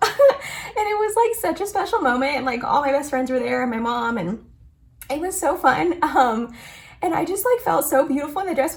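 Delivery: tearful voice, talking through tears. Telling Emily about a wedding-dress moment with best friends there, crying while talking. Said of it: "Why am I crying".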